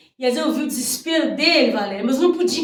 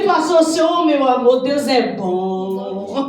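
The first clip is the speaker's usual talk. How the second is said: jubilant full-voiced testimony; fervent preaching; 6 semitones higher, 9 dB louder than usual. Real, not acted. Preacher telling the church her cancer is gone, fervent preaching. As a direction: proclaim the healing, stretching the key words.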